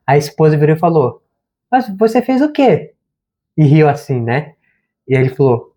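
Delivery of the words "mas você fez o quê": higher, slow mock-puzzled question; mildly ironic. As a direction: play innocent, lightly ironic, drawing it out. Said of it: "ela foi meio irônica".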